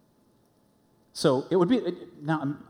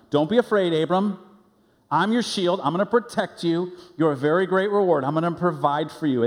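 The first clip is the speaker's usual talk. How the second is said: a hint of a booming God, louder and higher; 5 semitones higher, 4 dB louder than usual. God promising Abram protection, lightly voiced booming.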